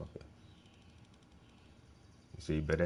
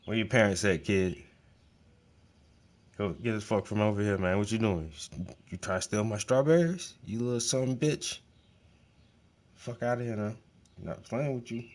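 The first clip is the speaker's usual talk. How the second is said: mock scolding a trespasser. To a kid stealing his strawberries, a mock angry scolding. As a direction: bark at the little strawberry thief, half joking.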